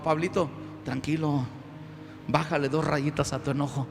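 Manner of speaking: low, soothing voice, dropped well down; calming friend. Acted. Friends tell Paul to cool down, soothingly. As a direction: talk an angry man down gently. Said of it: "Llegan unos amigos por allí y le dicen".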